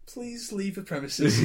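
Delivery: slow, prim Queen's English reading; mock the polite subtitle in Queen's English, slowly; posh Queen's English. Mimicking the film's subtitle, slow mock-posh Queen's English. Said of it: "subtitled in the Queen's English".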